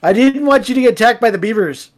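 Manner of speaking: apologetic put-on Canadian accent; mock Canadian accent. Canadian apologizing for leaving you, mock Canadian accent. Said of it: "I'm Canadian, eh".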